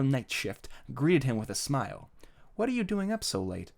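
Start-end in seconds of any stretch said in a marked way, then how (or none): 2.6-3.7 higher, lightly voiced mom; mother's voice. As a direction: greet your son in a higher voice. Mom greets son in story.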